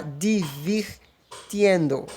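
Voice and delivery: "divirtiendo" said slowly, the I clearly marked; slow, careful "divirtiendo"; Spanish gerund demo. Shown as a demonstration. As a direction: model "divirtiendo" slowly for learners. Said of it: "vai trocar o E por I".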